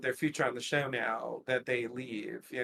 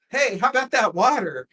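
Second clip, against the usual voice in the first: chirpy acted question; 6 semitones higher, 6 dB louder than usual. Acting out a character's question.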